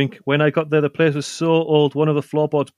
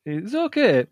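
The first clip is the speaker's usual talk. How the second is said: whispered; 7 semitones higher, slower than usual. Real, not acted. Hedged verdict on the beer.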